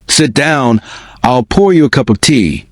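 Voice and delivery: lightly voiced old Irish woman, sing it a little; musical Irish accent. Old Irish landlady offering the boy tea, in a light lilting Irish accent. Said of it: "her Irish accent musical".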